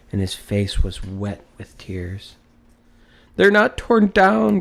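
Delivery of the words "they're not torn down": high, loud, overjoyed cry; crying out in joy. A narrator's reading. Scrooge clutching his bed curtains, crying out for joy. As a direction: shout it in disbelieving delight. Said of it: "cried Scrooge".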